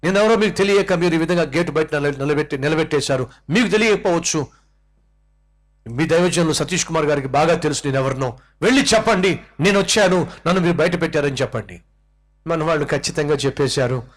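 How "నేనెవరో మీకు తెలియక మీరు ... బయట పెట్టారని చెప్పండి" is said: mock outrage: do you know who I am; retold angry shouting. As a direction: play the offended VIP shouting at the gate. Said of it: "అతను ఇంకా గట్టిగా అరుస్తూ".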